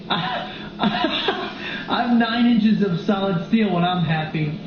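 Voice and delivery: slow, laughing through a crazed man's boast; mock boast. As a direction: drag it out, barely holding back laughter. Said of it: "he was like".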